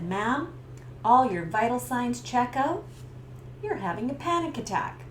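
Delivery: steady, calm and level; calm paramedic. Retold or imitated. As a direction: reassure her gently.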